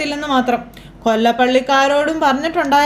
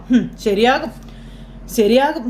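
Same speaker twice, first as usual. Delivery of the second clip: scoffing; slower than usual. Retold or imitated. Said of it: "ദേഷ്യപ്പെട്ടിരിക്കുന്നു".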